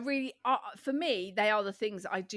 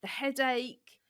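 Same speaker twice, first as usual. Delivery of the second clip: husky after illness; 4 semitones higher than usual. Real, not acted. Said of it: "you've still got sexy voice vibes".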